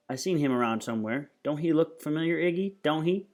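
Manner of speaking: a hint of a nagging woman; lightly voiced Loretta, puzzling. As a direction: press him lightly to agree. Voices the woman thinking aloud.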